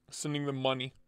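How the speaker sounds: soft, understated delivery; low-key statement. Real, not acted. Streamer vows to pay whoever goes to Blade Show, quietly. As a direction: say it quietly, almost to yourself. First take before shouted repeat.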